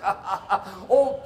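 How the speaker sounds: hammed-up laughing loyalty; mock cheerful slave. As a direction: play the overjoyed slave. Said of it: "I would say".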